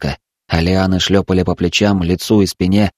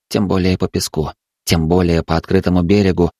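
ordinary delivery

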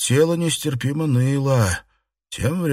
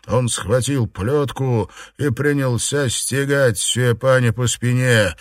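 plain reading voice

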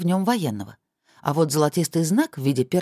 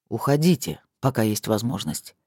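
icy tone; 5 semitones lower than usual. Acted. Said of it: "посоветовал Крис ледяным тоном".

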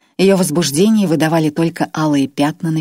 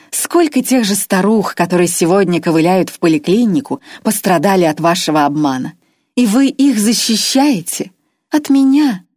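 higher and louder, sneering woman's voice; mocking contempt; 4 semitones higher, 4 dB louder than usual. Captor Irma mocks the old swindler, sneering. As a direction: pour scorn on him, rising to a jeer. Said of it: "Ирма издевательски захохотала".

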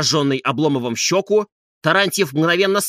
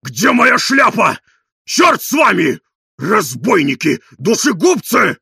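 loud, higher threatening yell; shouting; 5 semitones higher, 7 dB louder, slower than usual. A narrator's reading. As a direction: threaten while storming out. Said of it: "кричал он".

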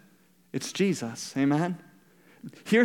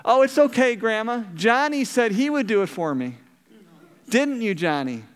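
sly little sister; 4 semitones higher than usual. Retold or imitated. Sly sister dodging chores again.

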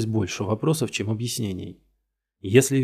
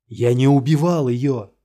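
loud slow denial, higher; shouting; 4 semitones higher, 7 dB louder than usual. Acted. Suspect screaming his innocence at the detective, loud shout. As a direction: yell it out desperately. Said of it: "закричал Гирт".

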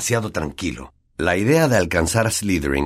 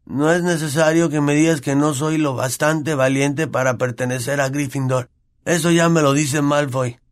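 choking up; 7 semitones higher than usual. Acted. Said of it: "atragantándose".

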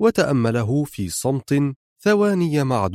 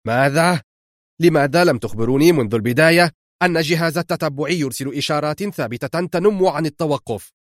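raised, urgent voice down the phone line; shouting into the phone; 3 semitones higher than usual. Acted. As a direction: demand answers sharply. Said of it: "وهو يصرخ". (صراخ غاضب في الهاتف)

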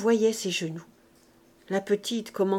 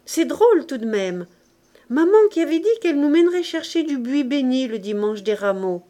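loud, higher, carefree outburst; lightly voiced child, raised and lively; child's exclamation; 4 semitones higher, 6 dB louder than usual. A narrator's reading. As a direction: exclaim like a carefree little boy. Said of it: "fit cette exclamation".

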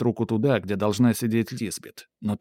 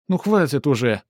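sulky, louder complaint; petulant princess; 3 semitones higher, 4 dB louder than usual. Acted. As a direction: snap it like a spoiled girl. Принцесса капризно обрывает. (капризно)

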